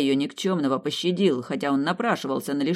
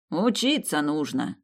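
softer grumble; slower than usual. Acted. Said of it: "уже не так агрессивно проворчал князь".

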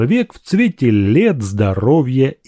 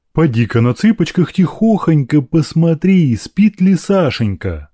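higher, anxious doting mistress; lightly voiced doting mother; 5 semitones higher, 4 dB louder than usual. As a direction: send the maid off with motherly fuss. (заботливая матушка)

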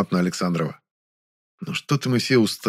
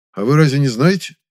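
a louder, exaggerated surprised question; pointedly surprised; 5 semitones higher, 5 dB louder than usual. Young man feigning surprise to the director, pointedly surprised. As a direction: act surprised on purpose. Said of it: "подчёркнуто удивлённым голосом".

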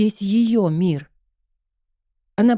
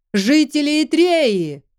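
выше, медленный громкий призыв; прокричать на всю арену; крик; 6 semitones higher, slower than usual. A narrator's reading. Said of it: "раздался крик". (громкий крик глашатая)

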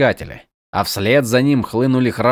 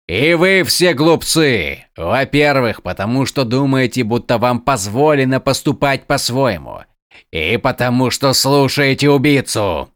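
growling. Acted. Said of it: "прорычал лорд-искатель".

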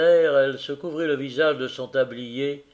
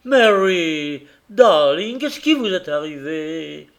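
loud, anxious call, higher; worried husband; 3 semitones higher, 8 dB louder, slower than usual. A narrator's reading. Carrier rushing to his screaming wife, loud and anxious. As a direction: reach her in alarm.

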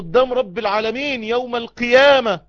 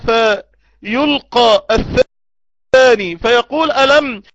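louder, building to a cry; loud preaching; 8 dB louder, slower than usual. Acted. Preacher voicing God's reproach to the sinner, building loud. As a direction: drive it home with force.

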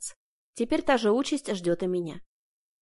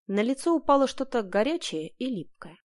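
ordinary delivery

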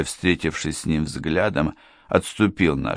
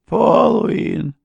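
high, loud drawn-out name; wife's high voice, louder; startled wife; 5 dB louder than usual. A narrator's reading. Wife repeats the stranger's name, high and startled.

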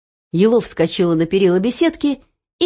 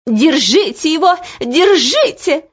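piercing scream; 8 semitones higher, 4 dB louder than usual. A narrator's reading. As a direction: shriek the alarm from afar. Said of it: "пронзительный голос Анидак".

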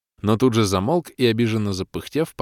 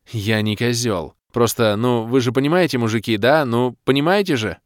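pleading doctor; 3 semitones higher, 4 dB louder than usual. Acted. The doctor begs the men to understand, mildly sheepish. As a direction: win the men over, sheepish.

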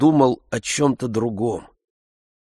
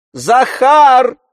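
high loud call; 9 dB louder than usual. A narrator's reading. Oblomov calling Zakhar from the sofa, loud high call. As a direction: call the servant from the next room. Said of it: "кликнул Обломов".

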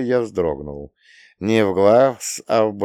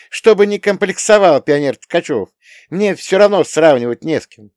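higher and louder, earnest explaining; young woman, heated; 8 semitones higher, 6 dB louder than usual. A narrator's reading. Young woman explains to Tkachev why she was assigned, raised voice. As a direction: press the point, raised voice. Female character voiced by narrator.

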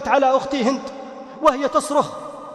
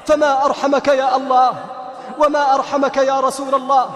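impassioned preaching. Acted. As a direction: rebuke the whole family like a preacher. Preaching reproach to listeners. (وعظ حماسي بصوت مرتفع)

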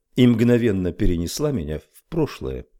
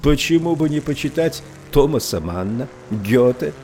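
shouting; 6 semitones higher than usual. A narrator's reading. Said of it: "кричал он".

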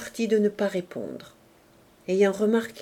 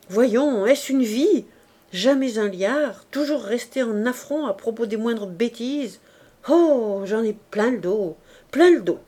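bitter complaint. Acted. Wife's bitter complaint to lover.

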